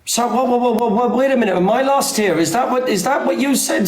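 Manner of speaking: high, alarmed whoa whoa, wait a minute; startled disbelief. Real, not acted. Host stunned that the banned account returned, alarmed disbelief. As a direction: pull up short in sudden alarm. Host shocked Ashley is back.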